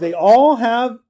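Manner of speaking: excited, hyped voice.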